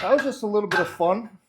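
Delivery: strained and loud under weight; carrying heavy load. Real, not acted. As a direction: push the words out mid-lift. Said while lifting the bar.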